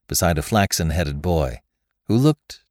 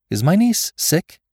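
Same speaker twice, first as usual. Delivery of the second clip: much higher, drawn-out suspicious question; quick suspicion; 12 semitones higher, 4 dB louder than usual. A narrator's reading. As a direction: ask it sharply raised in pitch, suddenly suspicious. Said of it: "asked Rebecca with quick suspicion".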